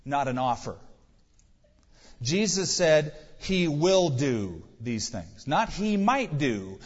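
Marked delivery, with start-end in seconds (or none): 2.2-6.8 slow, will hit firmly, then might pressed in contrast; stress on will. Shown as a demonstration. Preacher insisting on a declaration, stressing will. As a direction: weigh will against might. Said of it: "is making a declaration, not an offer".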